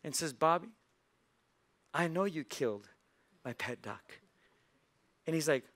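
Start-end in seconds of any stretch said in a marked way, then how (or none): 0.3-4.2 smiling grandma. Acted. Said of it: "looks at him and smiles".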